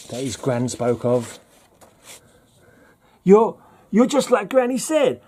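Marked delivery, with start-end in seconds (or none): 3.2-5.2 high, hammed-up Southern accent; badly faked Southern soldier, pitched way up; worst Southern accent. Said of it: "That's the worst accent ever".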